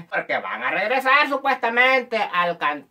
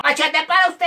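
high, punchy comic call; catchphrase call; 7 semitones higher than usual. Acted. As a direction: fire off MACHETE high. (pregón cómico agudo)

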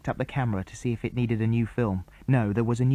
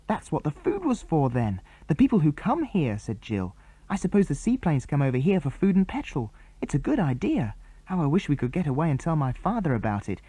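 put-on bright boyish chatter pitched up; boy character voices; 4 semitones higher than usual. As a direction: boys on the island plotting, pitched up. Jill talking.

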